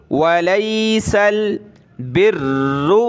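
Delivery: बिर्रु with a firm doubled र; recitation with stressed doubled r. Shown as a demonstration. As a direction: slowly, press hard on the र of बिर्रु. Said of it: "सख्त करेंगे उसको". (बिर्रु में र पर तशदीद, सख्त)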